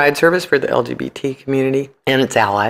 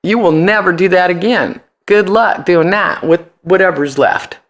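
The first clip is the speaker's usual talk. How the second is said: higher, slow, deliberate threat; slow menacing threat; 5 semitones higher than usual. Retold or imitated. Punk singer imitating the threat crowds wanted to hear. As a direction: spell out the threat word by word. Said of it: "They wanna hear".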